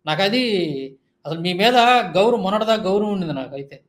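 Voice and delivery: normal talking voice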